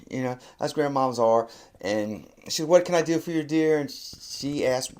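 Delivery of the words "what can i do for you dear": lightly voiced, higher grandmother; excited grandmother. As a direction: imitate a grandma pleased to get the call. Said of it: "grandmother's so excited to hear from her".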